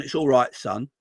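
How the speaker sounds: low, softened words of comfort; consoling manager. Acted. Klopp reassuring a player he kept on, consoling. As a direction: softly console a player, voice dropping away. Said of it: "gave him a big cuddle".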